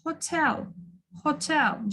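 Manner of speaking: Hotel with a soft, light h at the start. Shown as a demonstration. Teacher asking for a gentle sound, Hotel with a softened h. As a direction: barely breathe the h in Hotel. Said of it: "ушуну жумшак окуңуздар".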